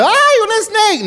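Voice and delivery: high-pitched, drawn-out startled shriek; imitated scream. Preacher imitating a woman who heard "snake", high mock scream. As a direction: squeal it out slowly, mimicking a panicked scream. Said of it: "Una de ellas salió gritando".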